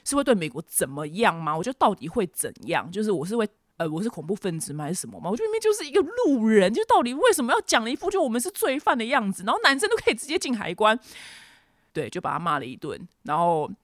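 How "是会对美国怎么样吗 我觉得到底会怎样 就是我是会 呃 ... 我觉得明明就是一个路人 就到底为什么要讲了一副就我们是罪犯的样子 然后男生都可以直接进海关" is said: retold angry rant. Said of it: "就大骂我说".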